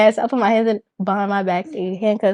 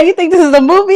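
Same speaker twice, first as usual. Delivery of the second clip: mock incredulous officer; 7 semitones higher, 6 dB louder than usual. Acted officer scoffs at her request.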